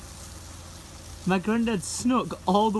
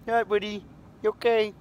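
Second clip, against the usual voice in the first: reassuring; 3 semitones higher, faster than usual. Real, not acted. Soothing frightened Steve.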